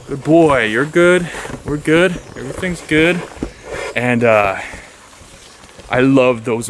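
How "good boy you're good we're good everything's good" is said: praising dog. Real, not acted. Hiker praising his dog after the buck leaves, high and happy. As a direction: cheer the dog on after the scare.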